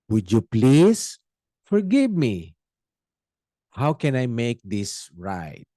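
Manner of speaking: slow, humble, sincere confession; humble apology. Shown as a demonstration. Sinner humbly apologizing to the person wronged, slow and sincere. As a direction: ask forgiveness gently and slowly. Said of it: "ang tono natin kung lalapit tayo".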